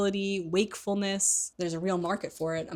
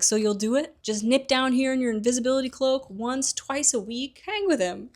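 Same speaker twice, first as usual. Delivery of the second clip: Hagrid voice; 6 semitones higher, 3 dB louder than usual. Retold or imitated. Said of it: "Hagrid's like".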